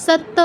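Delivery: "সত্য" as sat-to, no y; wrong doubled t. Shown as a demonstration. Teacher rejecting another mistake, "সত্য" as sat-to. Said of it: "সত্য নয়".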